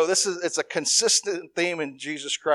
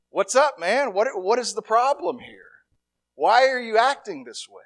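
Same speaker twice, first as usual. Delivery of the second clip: higher, louder exasperated rebuke; mock scolding; 6 semitones higher, 3 dB louder than usual. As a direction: play an exasperated teacher asking what's wrong. Imagined Jesus scolding disciples.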